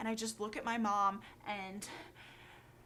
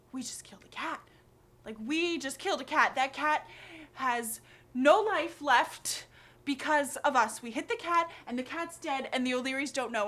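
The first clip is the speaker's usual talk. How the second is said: louder, slightly raised, acted panic; panicked inner rant; 3 semitones higher, 6 dB louder than usual. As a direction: kid spiralling over a terrible secret. Retold panicked inner rant as child.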